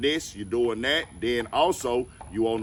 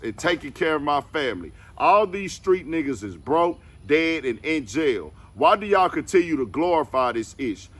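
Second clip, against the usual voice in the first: emphatic, raised-pitch quoting voice; forceful statement read-out; 4 semitones higher, 4 dB louder than usual. Retold or imitated. Reading out a rapper's rebuttal to the rat narrative, forcefully. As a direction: read the rebuttal out higher and louder.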